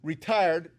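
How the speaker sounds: re-TIRED, the second syllable leaned on; stress on second syllable. Shown as a demonstration. Cyclist to the board, re-TIRED stressed on the second syllable. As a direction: punch the TIRED in retired. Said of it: "emphasis on the second syllable".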